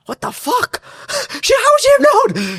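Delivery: squeaky high, laughing disbelief; laughing astonishment. Real, not acted. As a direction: laugh as you ask it.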